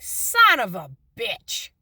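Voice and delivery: slow, drawn-out dawning curse; a mild mock groan of realization. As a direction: let it sink in as you say it, slowly. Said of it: "it hit me and I'm like".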